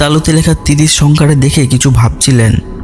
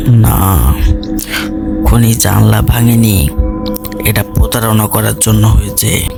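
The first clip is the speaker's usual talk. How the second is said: measured detective; 3 semitones lower than usual. Acted. Detective answers gravely.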